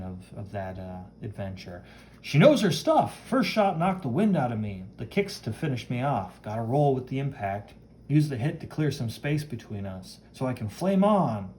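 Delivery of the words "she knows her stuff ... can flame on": hero mid-fight. Acted. Hero sizes up his attacker, lightly animated. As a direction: think through the fight aloud, mildly punchy.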